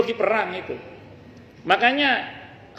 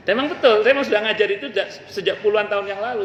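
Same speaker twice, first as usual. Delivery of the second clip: triumphant retort; 4 semitones higher, faster than usual. Real, not acted. Preacher retelling how he silenced a boastful student, proud and quick.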